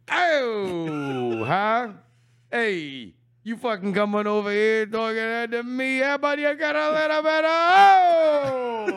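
brash, hammed-up street taunts with shouts; Italian tough guy bit. Taunting the coach in a hammed-up Italian tough-guy voice. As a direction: needle him like a mouthy wiseguy. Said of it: "did that whole improv bit".

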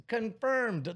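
confirmed rising high each time; hyped announcing. Acted. Announcing the lineup, each name met with a hyped high confirmed. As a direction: announce each act like a big reveal.

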